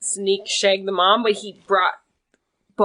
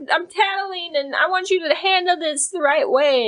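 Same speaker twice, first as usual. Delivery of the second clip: higher mock whiny girl tattling; mock daughter; 5 semitones higher than usual. Daughter complaining to her mom, hammed-up higher tattling voice. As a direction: play the upset daughter, pitched up. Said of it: "she brought her mom to be like".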